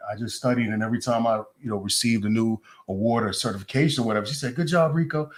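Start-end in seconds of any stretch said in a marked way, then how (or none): 4.6-5.3 imitating an African lady's French accent, higher and louder; a fond higher, louder French-accented impression of his mentor; French-accented mentor praising him, pitched up and louder. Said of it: "She's an African lady with a French accent".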